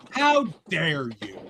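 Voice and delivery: slow, drawn-out mock outrage; mock indignation. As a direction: stretch out the indignant reproach. Mock outrage repeated for effect.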